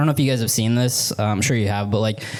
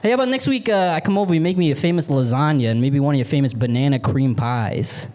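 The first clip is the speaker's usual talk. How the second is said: high, smooth-talking hustler; hometown guy voice; 7 semitones higher than usual. Pretend. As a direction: schmooze the neighbor lady. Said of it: "I'm like".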